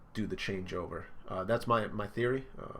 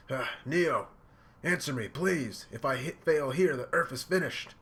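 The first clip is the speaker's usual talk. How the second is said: higher-pitched desperate begging, acted out; distressed plea; 6 semitones higher, 5 dB louder than usual. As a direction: plead in rising distress, as a character in trouble. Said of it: "he's, like, getting all distressed".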